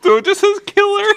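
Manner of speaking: high, fast laughing explanation. Real, not acted. Explaining the misread name while laughing hard. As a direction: squeal it out through laughter.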